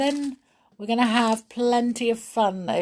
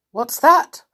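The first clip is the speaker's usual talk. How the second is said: surprised; 8 semitones higher, 10 dB louder than usual. A narrator's reading. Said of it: "asked Colonel Hathi".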